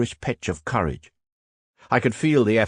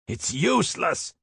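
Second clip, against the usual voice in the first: high, raised despairing shout; shouted louder; 9 semitones higher than usual. A narrator's reading. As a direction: yell back over the fire. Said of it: "shouted the veteran even louder".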